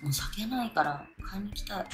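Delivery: soft breathy whisper. Real, not acted. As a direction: whisper it to yourself. Whispered wish for more drink.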